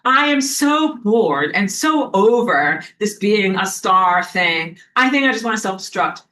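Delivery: imitating a star who's tired of fame; jaded star. Mocking a burned-out star, slow and bored. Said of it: "for a son to be like".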